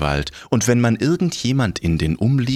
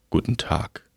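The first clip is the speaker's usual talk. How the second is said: grim reaper voice; 4 dB quieter than usual. Acted. Death greets, low.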